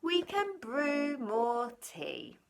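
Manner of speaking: little mouse comforting the bear; squeaky mouse. Acted. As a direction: soothe the bear in a tiny squeak. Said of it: "Mouse squeaks".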